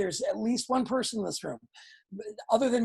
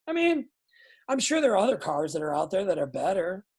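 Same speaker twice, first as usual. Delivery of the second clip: unenthusiastic salesman; faster than usual. Shown as a demonstration. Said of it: "Nobody cares".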